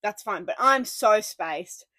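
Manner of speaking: slow dazed drawl; spaced out. Retold or imitated. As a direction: drag it out like you're spaced. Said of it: "And I go".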